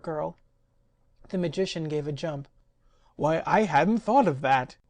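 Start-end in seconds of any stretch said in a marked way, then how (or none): 3.2-4.8 louder, elated exclamation; joyful cry. Acted. Magician suddenly seeing the answer, loud and joyful. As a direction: burst out with relief. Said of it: "he joyfully cried".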